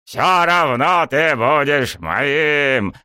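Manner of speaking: high, slow, drawn-out holler; yell. A narrator's reading. Coach calling after student, yelling. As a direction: howl it after someone walking away. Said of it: "донёсся мне в спину вопль".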